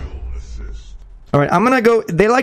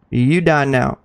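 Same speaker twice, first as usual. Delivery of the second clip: lower, quicker repeat of "You die now"; low threat; 4 semitones lower, slower than usual. Pretend. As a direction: drop it down low, matter-of-fact.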